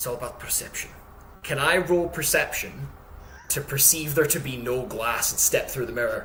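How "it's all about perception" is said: soft, breathy whisper, as if to oneself. Touching the mirror in the game, whispering to himself: whispering to himself. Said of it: "just whisper to myself".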